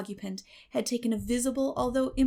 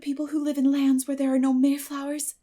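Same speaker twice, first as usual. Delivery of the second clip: put-on higher, bright-eyed chatter of an eager girl; eager girl Anne; 5 semitones higher, 5 dB louder than usual. Anne telling Marilla about Mayflowers, eager girl's chatter. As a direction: gush like a dreamy, talkative girl.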